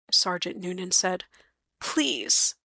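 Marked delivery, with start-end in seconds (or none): 1.8-2.5 begging. Acted. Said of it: "she begged".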